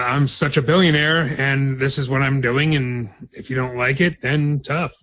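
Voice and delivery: slow, arrogant boss voice; lightly voiced entitled tycoon; mock Vince McMahon. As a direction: sneer like a smug billionaire. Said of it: "that Vince McMahon thing".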